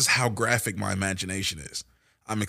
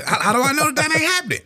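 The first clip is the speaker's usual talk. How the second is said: loud, high-pitched mock freak-out; played-up scared outburst; hammed-up panic; 7 dB louder, faster than usual. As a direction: race upward in comic disbelief and fright. Acting out his childhood panic.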